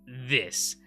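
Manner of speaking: slow accusation. Acted. Leo accusing.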